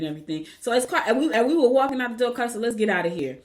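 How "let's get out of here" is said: matter-of-fact imitation of a toddler; straight-faced. Toddler leaving the hospital, straight-faced. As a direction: say it straight, no fuss. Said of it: "she just said it straight like that".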